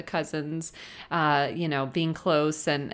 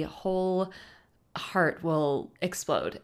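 whispered awe; 4 dB quieter, slower than usual. Real, not acted. Overwhelmed at becoming an aunt.

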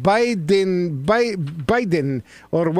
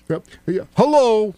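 bad New York guy impression; 2 semitones higher than usual. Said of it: "very bad impression of, uh, a guy from New York".

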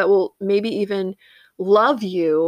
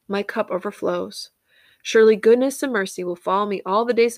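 scripture reading. Acted. Reads Psalm 23 aloud.

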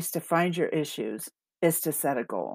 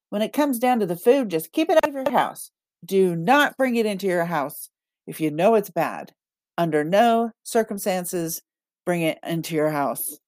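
life coach voice. Retold or imitated. Inner voice coaching her about food at home, upbeat and firm. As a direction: lay down the rules like a peppy coach. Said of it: "her inner voice is a life coach".

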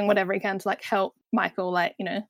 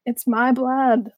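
drawn-out, slightly raised retelling of a film line; dramatic movie quote; 3 semitones higher, 4 dB louder, much slower than usual. Retold or imitated. Retelling a bleeding vampire's line to co-hosts, drawn-out mock drama. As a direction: stretch it out slowly in mock drama.

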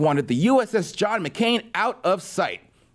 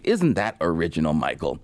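sarcastic; 11 semitones lower than usual. Real, not acted. Mocking actor's insult.

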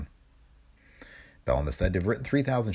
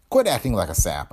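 stern; 5 dB louder than usual. Acted. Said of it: "I said sternly".

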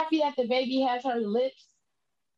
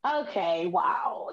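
stunned whisper; 6 semitones lower, much slower than usual. Retold or imitated. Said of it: "looking at it like".

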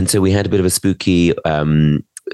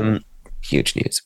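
whispering; 3 semitones higher, 6 dB quieter, slower than usual. Real, not acted. Whispered gossip aside.

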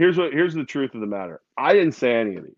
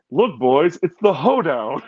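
Yale impersonation; 2 semitones higher, 3 dB louder than usual. Retold or imitated. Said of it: "I'll do the impersonation".

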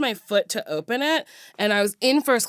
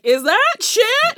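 shocked passengers; 13 semitones higher, 6 dB louder, much slower than usual. Retold or imitated. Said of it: "people getting off the plane were like".

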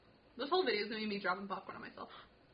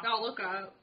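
talking through popcorn; words around a mouthful; mouth full; slower than usual. Real, not acted. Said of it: "we're eating with our mouthful of popcorn".

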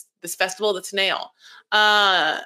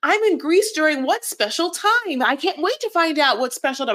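Disney princess; 5 semitones higher than usual. Pretend. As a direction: play the wide-eyed princess. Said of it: "I'm like a Disney princess".

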